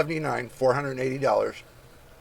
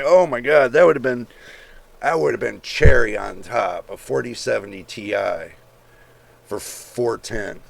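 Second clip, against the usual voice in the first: mock excited gasp; 7 dB louder than usual. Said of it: "I was like".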